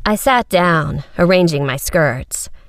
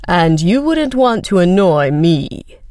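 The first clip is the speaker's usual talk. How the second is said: cold menace; slower than usual. A narrator's reading. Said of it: "His eyes hardened".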